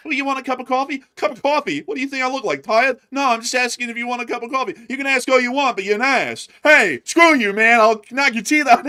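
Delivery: high, increasingly loud acted outrage; mock argument building to a shouted threat; escalating anger. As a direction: go from zero to a hundred. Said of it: "they get so angry".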